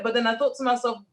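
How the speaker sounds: ordinary delivery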